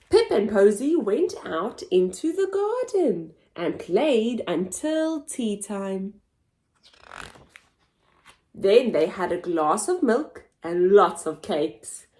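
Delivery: lively picture-book narration; storybook voice; reading to children. Acted. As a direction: read it with wide-eyed expression for little ones.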